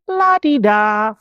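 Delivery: breeze through it as if nothing is urgent; mock la-di-da. Mimicking hospital staff with no urgency, airy la-di-da. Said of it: "Everybody was kinda just".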